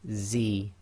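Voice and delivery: "Z" said as a buzzing Arabic z; a clear voiced z sound; Arabic zay. Shown as a demonstration. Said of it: "So this is with a Z".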